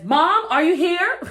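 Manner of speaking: high, slow, put-on sweet call down the hall; sing-song call. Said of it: "walks back down the hall and says".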